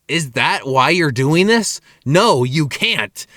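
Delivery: slow, deliberate disbelief; incredulous refusal. Retold or imitated. Cook refusing customer the fingered patties, slow and incredulous. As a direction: draw out each word of a retold refusal.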